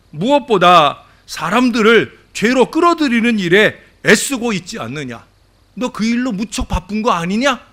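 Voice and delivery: mildly exasperated God, pitch climbing as it goes; God's baffled rebuke, acted out by a preacher; incredulous questioning. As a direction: question someone as if dumbfounded by them. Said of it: "어이없다는 듯이 물으셨어요".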